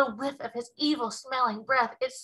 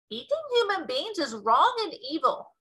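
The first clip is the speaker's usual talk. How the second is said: giant shout; 4 semitones higher, 3 dB louder than usual. Acted. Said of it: "shouted the Bloodbottler".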